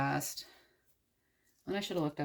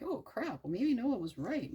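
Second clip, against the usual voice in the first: high yelp of dawning alarm; sudden mock panic; 8 semitones higher than usual. Drowning townspeople realize Noah was right, mock panic. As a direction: panic as the flood rises, half joking. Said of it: "they're like".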